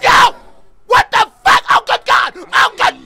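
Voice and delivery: high, very loud panicked yell; startled screaming. Real, not acted. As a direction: shriek at a jump scare. Jump scare in horror game.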